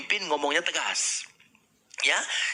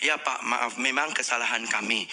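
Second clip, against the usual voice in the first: humble apology; 6 semitones lower than usual. Shown as a demonstration. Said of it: "kita hanya minta maaf".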